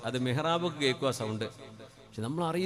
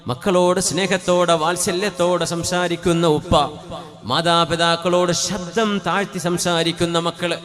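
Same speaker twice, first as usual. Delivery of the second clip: loud, high, impassioned sermon voice; fervent Friday preaching; full-force preaching; 4 semitones higher, 11 dB louder than usual. Acted. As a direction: preach it out to the whole hall.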